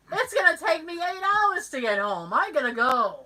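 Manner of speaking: worked-up inner voice, half-crying; mock panic. Acts out anxious inner debate.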